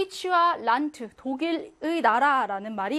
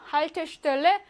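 Haltestelle with the stress on the first part Halte; Haltestelle, punch the opening Halte and let the rest fall; front stress; 3 semitones higher, much slower than usual. Shown as a demonstration. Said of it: "앞에 강세가 오고요".

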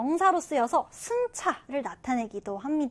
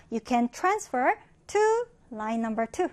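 subway announcement; much slower than usual. Retold or imitated. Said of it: "이렇게 나오거든요".

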